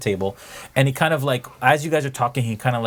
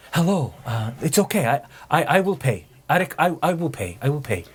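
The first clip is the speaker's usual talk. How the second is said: eager stranger; 5 semitones higher than usual. Acted. NPC offers to pay.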